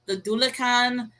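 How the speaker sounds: Dullahan as a second variant, DOO-luh-kahn; variant pronunciation. Shown as a demonstration. Host offers another name for the demon, Dullahan as DOO-luh-kahn. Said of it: "pronunciations and depictions of this".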